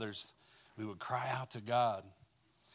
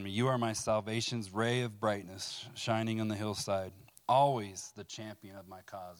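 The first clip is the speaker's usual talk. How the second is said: fuller, louder reading voice with weight; scripture reading; 4 dB louder than usual. Acted. Preacher reading Psalm 18 to the room, in a proclaiming voice. Reads psalm aloud to congregation.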